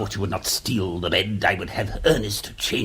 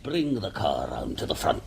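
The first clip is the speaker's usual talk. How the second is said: 1 whispered order; 5 semitones lower, 5 dB quieter than usual. Acted. Quiet order to servant.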